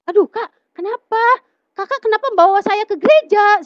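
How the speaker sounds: high, loud, upset questioning; dismayed protest. Retold or imitated. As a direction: confront a friend in dismay, pitched right up. Acts out protest at church.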